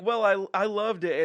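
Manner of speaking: lightly imitating her insistent reply; a hint of her defensive voice; lightly voiced woman. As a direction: imitate her protest, a touch emphatic. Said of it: "she's like".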